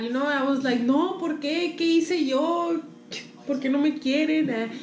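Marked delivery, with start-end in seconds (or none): 0.8-4.5 lightly hammed-up wounded whine; a touch of playful pouting; mock tearful. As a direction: imitate wanting to cry, drawing out the words. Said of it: "quería llorar".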